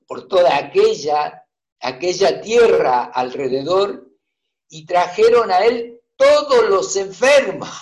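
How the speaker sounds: measured, solemn Bible reading; scripture reading. Acted. Preacher reading Matthew aloud to the congregation, measured scripture reading. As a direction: read the gospel steadily to the church.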